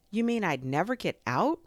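high, loud, dismayed question; alarmed question. A narrator's reading. Pooh fearing he will never get out, alarmed. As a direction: ask it in rising alarm.

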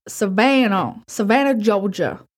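put-on Southern drawl; Savannah, Georgia in a slow Southern accent. Narrator naming where the job was, hammed-up Southern accent. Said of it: "I actually do a really good Southern accent".

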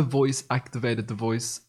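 "device" coming out as "the voice"; unwitting "duh-VOICE" for "device"; odd pronunciation. Real, not acted. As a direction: rhyme "device" with "voice". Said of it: "Why do I say the voice really weird".

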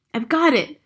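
high, loud eureka cry; excited shout. A narrator's reading. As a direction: shout out a sudden idea. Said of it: "I shouted".

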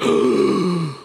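sharp high gasp of sudden fear; retold gasp of panic on the rock wall; frightened gasp. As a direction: gasp as the fear hits mid-climb. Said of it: "And I was like".

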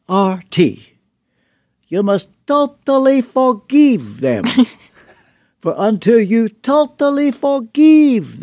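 put-on pressing Romanian-accented plea to forgive. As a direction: imitate an old Romanian friend's accent with earnest weight. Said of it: "I'll try to put on his accent".

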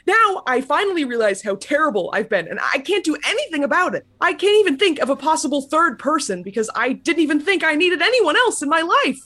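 high, pained despair; anguished. Acted. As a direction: cry out in regret. Anguished realisation.

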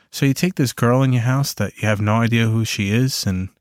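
normal talking voice

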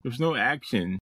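lightly put-on Reddit complainer. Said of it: "that was my Reddit, uh, voice".

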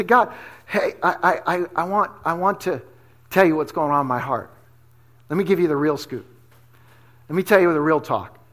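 low, soft, halting confession to God; heartfelt prayer. Acted. Believer telling God what is on the heart, quietly sincere. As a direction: open up to God quietly, feeling for the words.

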